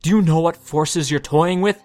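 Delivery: loud, strained accusing voice; rising anger, shouting her down; shrill and grating. Acted. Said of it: "his voice grating and shrill against her calm".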